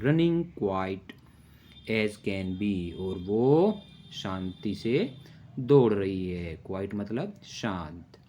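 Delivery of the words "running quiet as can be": slow, sing-song rhyme reading; poem recitation. Shown as a demonstration. Teacher recites a little poem slowly to children. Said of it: "poem है".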